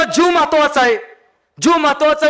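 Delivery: man in gorilla suit yelling for his life; panicked yelling. Retold or imitated. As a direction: yell it like a man stuck in the tiger's cage. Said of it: "जोर ओरडायला लागलं".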